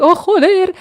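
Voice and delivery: high-pitched mock outcry; mock wail of annoyance; imitated exasperated yell. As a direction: mimic her frustrated Spanish cursing. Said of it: "screaming and shouting on me".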